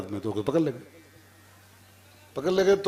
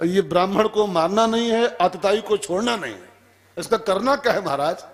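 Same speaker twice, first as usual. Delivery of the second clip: higher, exasperated questioning; acted puzzlement in a raised pitch; baffled protest; 5 semitones higher than usual. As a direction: complain to your lord about the contradiction. Arjun protesting the riddle order.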